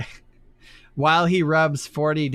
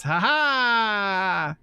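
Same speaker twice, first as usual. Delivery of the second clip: monster laugh; 8 semitones higher than usual. Acted.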